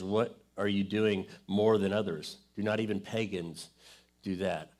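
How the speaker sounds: measured Bible reading aloud; scripture reading. Acted. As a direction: read the passage with weight.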